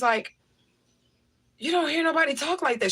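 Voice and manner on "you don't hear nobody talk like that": put-on mildly astonished older lady, higher-pitched; imitated shock. Older lady amazed at hearing yes ma'am, higher astonished voice. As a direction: retell her amazement in a raised pitch. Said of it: "she was shocked".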